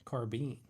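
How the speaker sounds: "carbine" ending like bean, slight rise; carbine as car-been. Shown as a demonstration. Streamer reads chat's correction, carbine as car-been. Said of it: "No bine".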